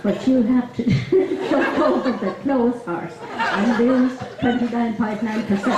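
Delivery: put-on giggling through a Dublin accent; laughing. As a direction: barely hold it together in Dublin accent. Laughs through the sketch punchline.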